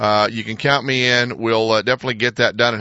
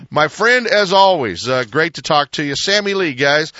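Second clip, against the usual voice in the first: excited sign-off; 4 semitones higher, 3 dB louder than usual. Real, not acted. Radio host's loud sign-off.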